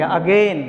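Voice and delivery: "अगेन" with a long gliding second syllable, "a-GAIN"; corrected pronunciation. Shown as a demonstration. Teacher correcting students' word, "अगेन" as corrected "a-gain". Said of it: "अगेन बोलेंगे".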